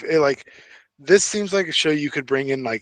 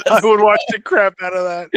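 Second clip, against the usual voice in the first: louder and higher, all in on the idea; excited repeat; 7 semitones higher, 6 dB louder than usual. Real, not acted. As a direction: say it again, now really thrilled by it. Repeating the line with more enthusiasm.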